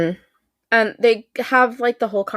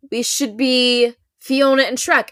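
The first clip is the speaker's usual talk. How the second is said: deflecting tone; 4 semitones higher than usual. Retold or imitated. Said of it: "same tone of voice that she uses".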